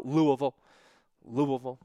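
Louisville said as "Loo-uh-vul", the middle slurred; local pronunciation. Shown as a demonstration. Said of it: "You gotta get the, uh, in the middle".

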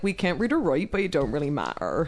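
attempted rural West Country English accent; soft-spoken West Country burr, falling away. Shown as a demonstration. Showing the one accent she can do, West Country. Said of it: "The only one I can ever do is West Country".

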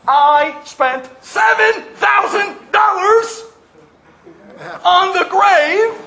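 high, loud, slow outraged yell; furious shout. Acted. Sam yelling at the nurse about the wasted grave, furious. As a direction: bellow the cost in outrage.

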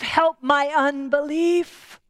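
slow, sincere prayer; slow earnest prayer. Real, not acted. Preacher confessing his own unbelief to Jesus, slow and sincere. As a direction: pray each word slowly.

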